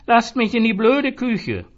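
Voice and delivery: high, loud, slow yell; slurred loud demand; drunken bellow. A narrator's reading. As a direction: roar while wrestling free. Zoran struggling with barmen.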